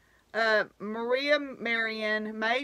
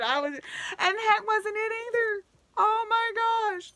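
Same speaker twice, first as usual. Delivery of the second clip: much higher, squealy gush; giddy excitement; 9 semitones higher than usual. Real, not acted. Recalling opening the gift, squealing like a kid. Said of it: "I was just squealing like a kid".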